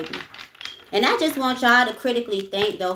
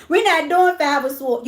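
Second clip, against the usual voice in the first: laughing; 6 semitones higher, 4 dB louder than usual. Real, not acted. Laughing refusal of a tarot card.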